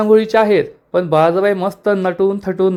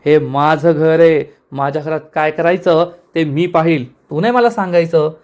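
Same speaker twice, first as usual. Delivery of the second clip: angry. Acted. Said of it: "Baljabai चिडून म्हणते".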